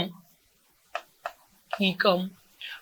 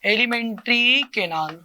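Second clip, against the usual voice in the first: slow drill; slower than usual. Shown as a demonstration. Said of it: "क्या है बेटा?".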